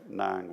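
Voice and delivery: "nang" with no rise or fall; neutral tone. Shown as a demonstration. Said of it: "kind of a neutral tone".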